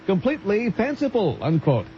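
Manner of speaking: measured radio newsreader delivery; news read. Real, not acted. Newsreader reporting a court case to radio listeners, formal news read.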